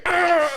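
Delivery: high yelp of pain; mock scream. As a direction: cry out up high. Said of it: "this nigga".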